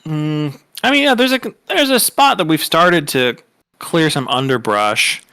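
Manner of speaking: buy time with a long pensive hum, then hedge; stalling professor. Acted. Professor stalling after looking a student up and down, hesitant.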